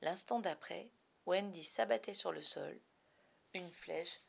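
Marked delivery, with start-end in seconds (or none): 3.5-4.2 whispered tragic ending; hushed. A narrator's reading. Narrator whispers the tragic ending. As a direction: let it die to a whisper.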